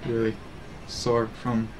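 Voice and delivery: low, soft sultry mistress voice; lightly played sultry streamer, hushed and deep. Streamer playing a donated sultry role, sultry. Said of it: "back to the sultry mistress".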